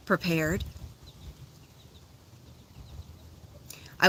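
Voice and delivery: calm, unhurried guiding voice; guided meditation. Acted. Guiding listeners through a meditation, calm and unhurried. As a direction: lead the group gently through the image of the flower.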